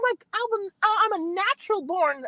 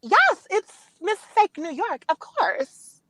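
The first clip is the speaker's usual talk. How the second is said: Minnie Mouse voice; slower than usual. Real, not acted. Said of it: "they said you sound like Minnie Mouse".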